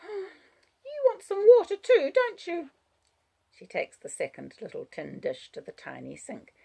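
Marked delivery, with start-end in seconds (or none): 0.0-2.7 put-on slow, high child voice; sighing child. A narrator's reading. Child tending the budgie, slow high child voice. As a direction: ask slowly after a sigh, as a little girl. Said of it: "She sighs".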